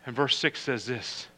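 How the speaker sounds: soft, low reading of the verses; scripture reading. Acted. Reads scripture softly.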